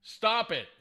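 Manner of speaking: sharp, high command to a cat; real scolding. Real, not acted. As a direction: scold the pet from across the room.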